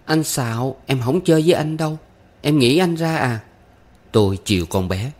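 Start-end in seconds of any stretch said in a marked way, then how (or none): 0.0-3.4 put-on high, quick child protest; young pupil's petulant high voice; huffy little girl. A narrator's reading. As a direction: accuse and sulk as a small girl.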